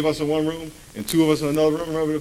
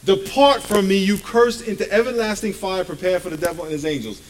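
loud; 4 semitones higher than usual. Shown as a demonstration. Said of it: "he will say".

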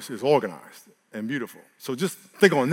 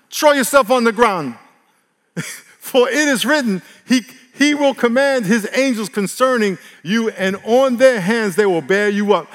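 loud mocking tempter, higher and drawn out; devil taunting; 7 semitones higher, 8 dB louder than usual. Preacher voicing the devil tempting Jesus, loud and mocking. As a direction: goad him like a sneering devil. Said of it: "and said to him".

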